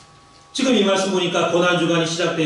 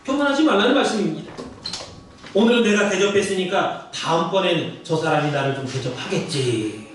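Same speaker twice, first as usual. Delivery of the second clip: ordinary talk, nothing marked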